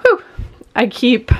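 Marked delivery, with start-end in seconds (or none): 0.0-0.2 puffed-out exhale; breathless whew. Real, not acted. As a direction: blow out a tired breath. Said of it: "I'm out of breath".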